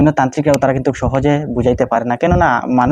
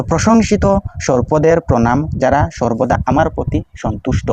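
prayer recitation. Shown as a demonstration.

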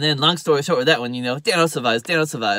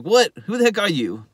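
high, startled question; mock disbelief; 6 semitones higher, 3 dB louder than usual. McGarrett hears Dano praise Hawaii, incredulous. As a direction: act out being taken aback. Acts out disbelief at changed friend.

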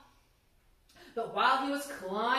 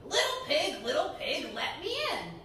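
wolf voice. Acted. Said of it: "playing the role of the Big Bad Wolf".

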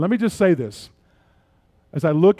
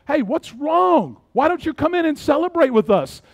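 higher, coaxing father asking his son in; a father gently calling his sulking son inside; gentle father; 8 semitones higher than usual. Acted. Father voiced pleading with son.

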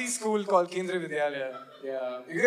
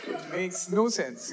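softer, drawn-out: it makes no sense; slow quiet repeat; 2 semitones lower, 5 dB quieter, much slower than usual. Shown as a demonstration. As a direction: let it fade, slowly.

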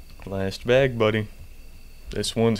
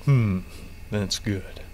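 odd delivery; 3 semitones lower, much slower than usual. Pretend. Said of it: "Don't know why I said it like that".

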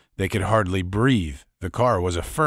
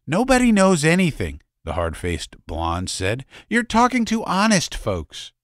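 hard-faced woman; 10 semitones higher, 3 dB louder than usual. Acted. Hard-faced blonde denying.

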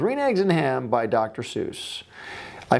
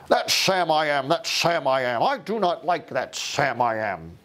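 a hint of a crotchety old grouch; crotchety grumpy old man. Reading Green Eggs and Ham to viewers, a mildly crotchety old man. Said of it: "That's him, crotchety, grumpy".

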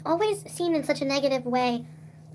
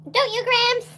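higher, louder cooing call; 10 semitones higher, 6 dB louder, slower than usual. Acted. Teasing the dead grandmother, cooing. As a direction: coo it up to grandma.

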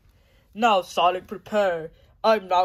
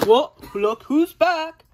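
slow, loud gloating greeting, pitched up; villain taunt; 8 semitones higher, 7 dB louder than usual. Acted. Villain greeting Sonic on his return, slow loud gloat. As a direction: savour the villain's entrance.

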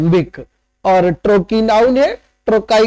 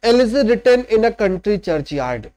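slow title reading; much slower than usual. Shown as a demonstration. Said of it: "Thomas Gray की poem".

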